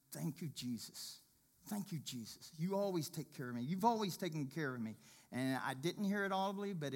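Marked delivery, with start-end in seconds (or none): 0.1-5.0 tearful thanks. Retold or imitated. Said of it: "I started crying and saying".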